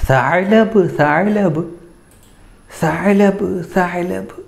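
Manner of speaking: high, scared repeated cry; frightened cry. Acted. Scared chick calls to mother about the fox: high frightened cry. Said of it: "പേടിയോടെ പറയാണ്".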